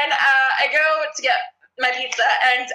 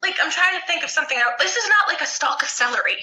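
retold rant; 6 semitones higher than usual. Retold rant about pizza.

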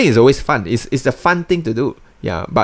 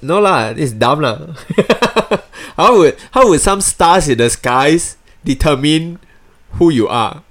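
laughing scoff; 5 semitones higher than usual. Real, not acted. Mocking astrology while laughing.

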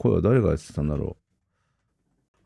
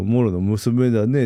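Okkotonushi voice; 2 semitones higher, slower than usual. Retold or imitated. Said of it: "声真似を覚えようと思って".

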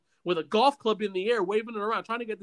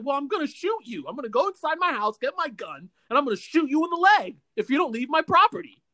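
retold threat; 5 semitones higher, 3 dB louder than usual. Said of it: "At this point, I was like".

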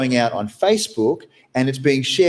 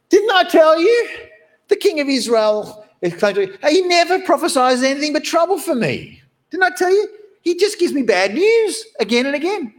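angry king. Retold or imitated. Angry king complains about the prophet.

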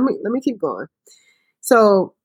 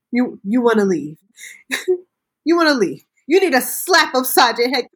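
mock scolding mother; 4 semitones higher than usual. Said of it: "She listens to her and says".

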